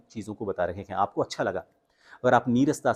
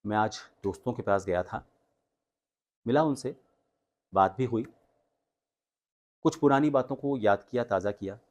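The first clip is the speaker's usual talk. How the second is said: softer, low, flat recount; low subdued telling; 4 dB quieter than usual. Shown as a demonstration. Coach retells meeting friends in a low, dull voice. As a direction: tell it quietly like a chore. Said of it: "अब लो के साथ कैसे करना है".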